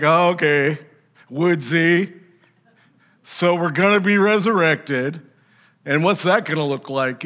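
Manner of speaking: mildly snarky mock skeptic; lightly mocking, as if unconvinced. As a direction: put on a doubter's question with a touch of snark. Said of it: "could be a little snarky".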